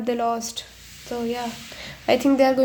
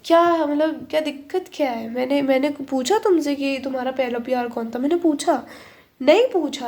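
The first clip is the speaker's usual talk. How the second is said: lightly acted indignant questioning; mock annoyance. Acting the partner who never asked about first love, mildly annoyed. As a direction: challenge them, half in play. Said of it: "आपको गुस्सा आएगा".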